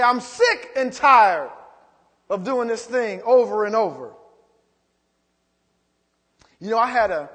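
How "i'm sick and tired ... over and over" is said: mock exasperation. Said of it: "if you get real upset, you say".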